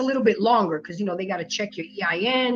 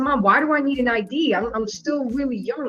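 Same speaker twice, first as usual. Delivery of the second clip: usual speaking voice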